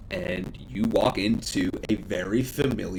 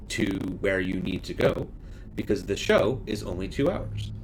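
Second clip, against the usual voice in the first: lightly voiced hostess, solemn offer. Hostess offers the players a gift and help, measured.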